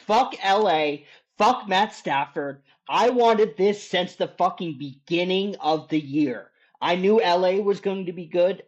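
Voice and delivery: real heated fan fury, voice up and pushed hard; emotional rant. Real, not acted. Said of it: "I'm sorry I got emotional".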